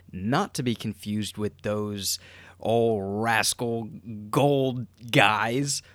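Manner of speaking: whispered aside, slow and breathy; hushed aside. Acted. Whispering a joking aside to listeners. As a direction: lean in and whisper the joke.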